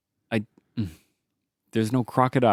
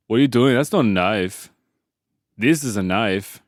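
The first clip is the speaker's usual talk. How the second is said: P=A; Dundee line; 3 semitones lower than usual. Acted. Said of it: "I feel like he would do it more stern".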